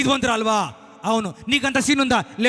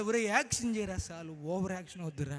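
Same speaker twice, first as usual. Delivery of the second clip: God scolding; 5 semitones lower, 12 dB quieter than usual. Retold or imitated. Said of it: "ప్రభు అంటాడు".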